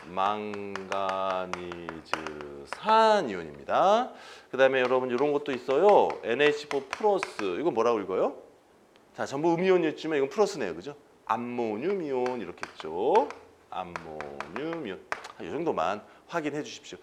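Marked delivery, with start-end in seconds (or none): 0.0-4.1 "망가니즈산" stretched syllable by syllable, low and soft; slow drawn-out term. Shown as a demonstration. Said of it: "거지같이 길어요". 13.7-15.0 "암모늄 이온" drawn out slowly, low and very soft; slow repeat. Shown as a demonstration. Teacher repeats the name for learners.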